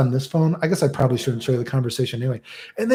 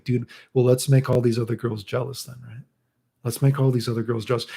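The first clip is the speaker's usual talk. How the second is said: soft, offhand coaxing; playing it cool; 5 dB quieter than usual. Streamer trying to calm a nervous girl, casually cool. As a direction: toss it off casually.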